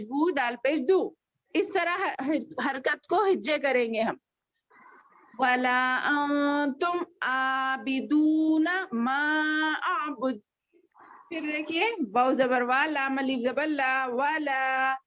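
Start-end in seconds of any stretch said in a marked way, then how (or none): 5.3-10.4 drawn-out recited verse; slow recitation. Shown as a demonstration. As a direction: recite each syllable long and even. Teacher recites verse slowly. (धीमी तिलावत)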